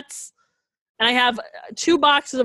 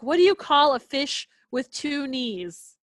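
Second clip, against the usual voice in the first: imitating dad; 3 semitones higher, slower than usual. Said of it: "He's like".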